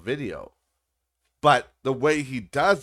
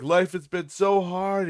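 high, drawn-out mock wail of complaint; mock screaming rant; 8 semitones higher, 4 dB louder than usual. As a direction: imitate a man screaming his woes. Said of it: "he's screaming in his car".

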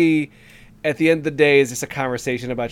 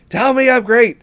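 higher and louder, insisting; louder demand; 11 semitones higher, 9 dB louder than usual. Retold or imitated. Smug therapist demands praise from clients, louder.

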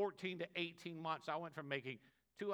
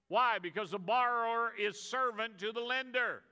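loud, higher, building exhortation; preaching at full force; 5 semitones higher, 7 dB louder than usual. Acted. Preacher exhorting the church to lend, shouting. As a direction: drive it home to the congregation.

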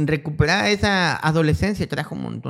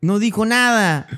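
slow, louder words through real laughter; laughing; 7 semitones higher, 6 dB louder, slower than usual. Real, not acted. Cracking up telling his friend the kid went silent, laughing.

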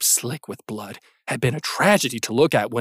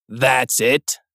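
sharp indignant; 3 dB louder than usual. Acted. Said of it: "Brian's voice was clear, sharp, indignant".

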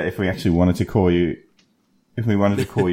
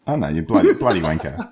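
lightly put-on Australian accent with a chuckle; mock Australian accent; 2 semitones lower than usual. Friend teasing the guest in a light fake Australian accent. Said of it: "a good thick Australian accent".

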